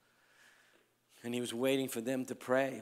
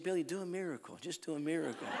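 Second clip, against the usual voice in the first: higher-pitched coaxing mom voice; imitated pleading mother; 5 semitones higher, faster than usual. Mother asking her preacher son for a miracle, higher imitated plea.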